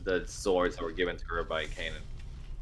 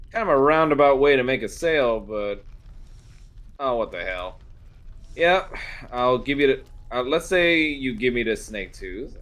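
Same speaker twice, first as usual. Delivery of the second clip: a proud blacksmith sizing up a customer; smith woman; 2 semitones higher, 3 dB louder than usual. Acted. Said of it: "They're like".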